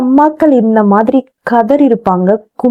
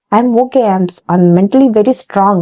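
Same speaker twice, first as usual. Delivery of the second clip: forced brave face; 2 semitones lower, much slower than usual. Retold or imitated. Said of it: "acting பண்ணிப்பாங்க".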